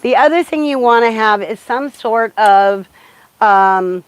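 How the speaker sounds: muffled behind a mask; talking through a mask; through a face mask. Real, not acted. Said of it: "it's gonna be a little muffled".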